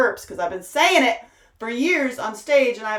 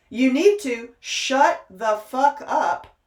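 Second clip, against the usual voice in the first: slow, louder, each word hit; blunt slow command; 4 semitones higher, 6 dB louder, slower than usual. Real, not acted. Preacher scolding her followers, slow and louder. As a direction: lay down the law.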